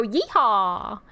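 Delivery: a whooped Southern yeehaw; mock Southern holler. Joking about how to research a Southern accent, mock holler. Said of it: "Research for a southern accent".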